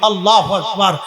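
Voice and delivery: impassioned sermon, punching key words; full-force preaching. Real, not acted. Preacher recounting Imam Husain's patience at Karbala, forceful preaching. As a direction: hammer out each clause to the crowd.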